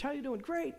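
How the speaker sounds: high, chirpy church greeting; falsely cheerful. Retold or imitated. Stuffer at church telling a big fat lie, feigned high cheer.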